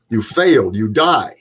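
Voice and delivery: stern verdict in an imitated German accent; mock-stern German mentor. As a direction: pronounce sentence like a German drill instructor. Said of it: "in his German accent".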